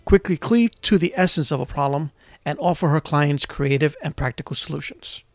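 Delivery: measured, polished presenter read; radio host introduction. Acted. Radio host welcoming listeners and presenting the guest, scripted announcer delivery. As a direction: introduce the guest as if reading prepared copy.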